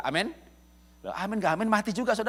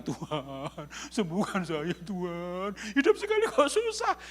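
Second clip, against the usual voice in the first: imitating a tearful, whiny prayer; mock weeping prayer; slower than usual. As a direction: play a self-pitying believer sobbing to God. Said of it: "Doanya nangis-nangis lagi".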